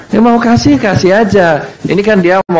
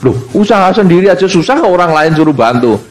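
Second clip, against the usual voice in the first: indignant retort; 2 semitones higher than usual. Retold or imitated. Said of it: "kamu sering membantu usaha orang lain".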